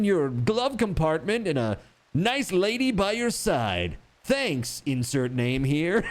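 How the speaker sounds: hammed-up praise ad read; campaign ad voice. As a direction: sell it like a glossy campaign spot. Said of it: "the next one's like".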